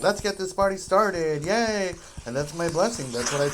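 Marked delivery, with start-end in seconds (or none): 0.0-1.9 bright, high, louder party cheer; excited cheer. Retold or imitated. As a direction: kick off the party with a happy yay. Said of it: "I'm like".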